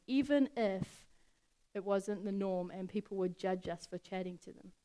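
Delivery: loud, driving sermon voice; a preacher building to full volume; preaching at full force. Acted. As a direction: preach it out to the youth. Preaches louder with rising intensity.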